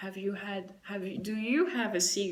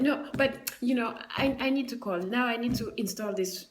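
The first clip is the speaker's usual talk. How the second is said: loud, higher, irritated insistence; snapping back; 4 semitones higher, 5 dB louder than usual. Retold or imitated. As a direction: snap back into the complaint, louder. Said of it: "she just snaps back into it".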